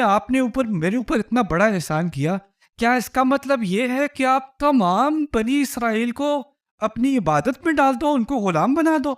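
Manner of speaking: a touch of incredulous challenge; Moses retorting. Retold or imitated. Moses answering Pharaoh, a hint of pointed indignation. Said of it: "تو کہتے ہیں،".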